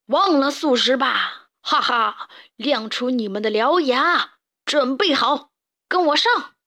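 slow gloat building to a rallying cry; menacing villain leading the charge; sinister grinning boss. Acted. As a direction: cackle and rouse the gang to attack. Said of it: "田鼠普老大狞笑道".

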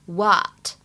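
"what" with a long open "ah"; long American vowel. Shown as a demonstration. Teacher models American English, "what" with a long ah. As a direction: stretch the vowel of "what" toward "waht". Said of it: "元音发的会比较偏向长元音的啊".

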